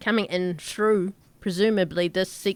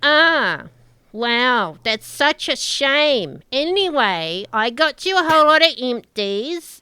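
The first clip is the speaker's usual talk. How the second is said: a hammed-up shame; mock sympathy; 3 semitones higher, 4 dB louder than usual. Orla brushes off Tal's news, mock sympathetic.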